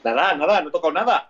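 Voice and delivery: phone held away. Real, not acted. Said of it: "se te oye lejos".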